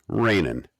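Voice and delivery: "rainin'" ending in a plain n, no g; Oklahoma-style "rainin'", ending on -in; dropped G. Shown as a demonstration. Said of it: "They drop the G".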